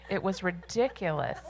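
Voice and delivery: laughing through the words; chuckling at the absurd match. Real, not acted.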